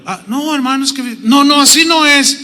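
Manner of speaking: a wife arguing in counseling, raising her voice; protesting wife. Acted. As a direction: push back at the pastor. Acted wife quarreling in counseling.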